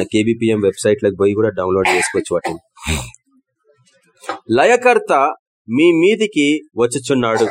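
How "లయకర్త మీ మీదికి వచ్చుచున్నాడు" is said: proclaimed verse. Shown as a demonstration. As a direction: announce the destroyer's coming with force. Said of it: "reads the verse with force".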